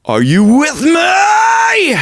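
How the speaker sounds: drawn-out high metal scream; distorted fry scream. Shown as a demonstration. Coach showing how to bring fry in, distorted scream. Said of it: "just bringing that in".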